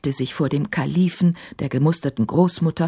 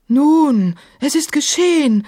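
high, emphatic defiant retort; louder opening word, then high-pitched defiance; 11 semitones higher, 5 dB louder than usual. A narrator's reading. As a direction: answer back stubbornly. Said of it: "erwiderte Kafur trotzig".

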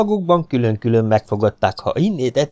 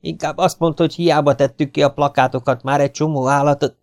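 put-on older brother; 6 semitones higher than usual. Attila corrects his brother.

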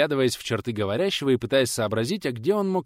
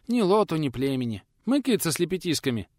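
a light lisping peasant voice; lightly voiced old man lisping his r's; hint of a lisping old craftsman; 6 semitones higher than usual.

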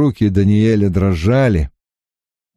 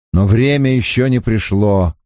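plain reading voice

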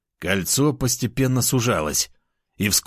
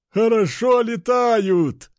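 gleeful soldier; 12 semitones higher, slower than usual. Acted. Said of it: "хохотал один из бойцов".

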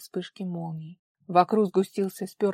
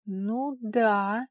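puzzled; 3 semitones higher than usual. A narrator's reading. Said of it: "недоумённо застыла Вара".

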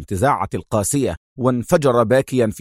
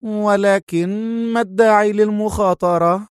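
indifferent; 9 semitones higher than usual. Acted. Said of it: "في لا مبالاة".

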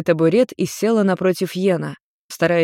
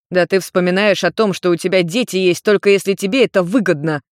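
shout. Acted. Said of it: "крикнул Йен".

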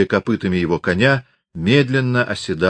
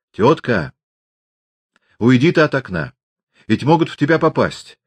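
an anxious plea to the aunt; gently begging her away from the window; pleading; 5 semitones higher than usual. A narrator's reading. Aksinya begs the aunt away from the window, pleading. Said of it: "просила Аксинья".

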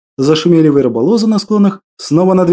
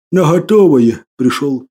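sad; 2 semitones lower than usual. Acted. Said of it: "грустно ответил садовник".

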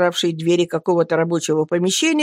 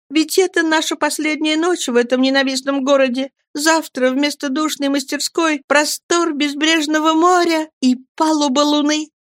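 eager young woman, voiced much higher; a girl dreaming of freedom, lifted high; young woman voiced high and hopeful; young Miriam; 9 semitones higher than usual. A narrator's reading.

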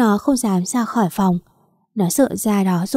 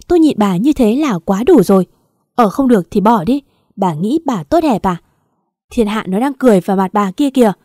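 loud, fed-up husband's outburst; angry scolding; 4 dB louder than usual. Acted. Husband fed up after thirty years with wife, angry scolding. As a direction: shut them down forcefully, quickening on the rebukes.

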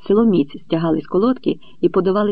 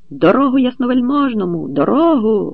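higher, loud clearing cry; calling out; 7 semitones higher, 4 dB louder than usual. A narrator's reading. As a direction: clear the way for the hetman. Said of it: "гукали ... гетьманські поїжджани". (гетьманські поїжджани голосно гукають)

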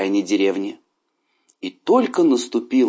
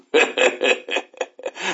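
tiger's breathy laugh; 3 semitones higher than usual. A narrator's reading. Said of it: "начал смеяться".

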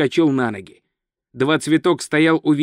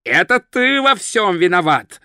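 mild angry yell, accusing; understated shout of blame; 3 semitones higher than usual. Acted. Thief blames the wizard while choking him, yelling with restraint. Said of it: "заорал он".

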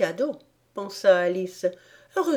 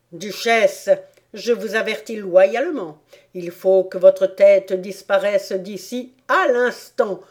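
stern royal threat; 5 dB louder than usual. Acted. Queen threatens the duchess.

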